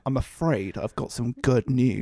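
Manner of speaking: a hint of a Northern English announcement; lightly put-on Northern English accent, solemn; Northern English accent, mock gloom for good news; mock Bad News Barrett. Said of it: "I can't really do his accent".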